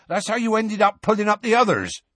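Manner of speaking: high-pitched shouted scolding; Hagrid shouting. A narrator's reading. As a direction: shout a telling-off up at the giant. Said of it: "shouted Hagrid".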